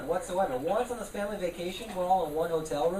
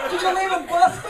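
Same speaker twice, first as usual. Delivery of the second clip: mock concerned heckler; 11 semitones higher, 8 dB louder than usual. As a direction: ask like a fretful social worker. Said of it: "heckled by social services".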